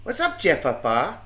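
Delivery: slow, loud, stretched call of a name; drawn-out greeting. Real, not acted. Greeting Jeff, a slow loud stretched call.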